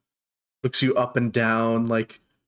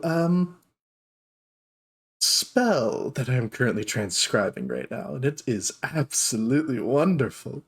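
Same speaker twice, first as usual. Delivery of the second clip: dark elf shopkeeper; 2 semitones higher than usual. Acted. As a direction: coo at unexpected guests. Trish voice continues.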